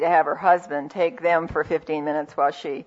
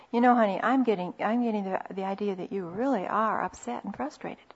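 gentle statement; 5 dB quieter than usual. Shown as a demonstration. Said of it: "You're making a statement".

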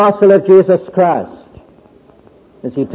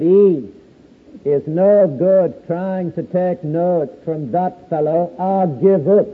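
put-on North Country accent; 4 dB quieter, slower than usual. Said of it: "in his North Country accent".

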